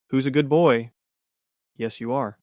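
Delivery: playful infant-directed voice for a dog; baby talk. Shown as a demonstration. Narrator shows how people talk to dogs, baby talk. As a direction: coo over a dog as if to a baby. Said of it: "or infant-directed speech".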